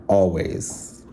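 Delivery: Always drawn out with weight, falling at the end; stress on always. Shown as a demonstration. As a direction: lean hard on Always, then let it drop. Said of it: "Keep emphasis on always".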